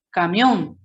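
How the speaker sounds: "Camión" with its weight on MIÓN; stress on last syllable. Shown as a demonstration. Teacher asking where the word carries most force, stress on last syllable. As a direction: lean on the final syllable of "Camión". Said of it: "¿dónde lleva la mayor fuerza de voz?".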